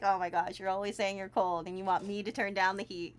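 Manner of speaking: a hint of an eye-rolling husband; mock exasperated husband. Husband complaining she's always cold, mild mock exasperation. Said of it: "'cause he's gonna be like".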